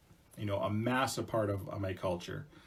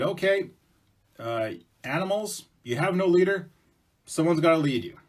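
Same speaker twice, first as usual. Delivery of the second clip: raised, louder god voice; creator voice; 5 semitones higher, 5 dB louder than usual. Acted. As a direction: speak as the creator addressing animals.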